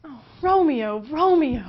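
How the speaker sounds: high, loud, swooning Juliet; Juliet pining. Acted. Juliet at her window calling for Romeo, high and loud. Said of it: "moaning on about how Romeo's a Montague".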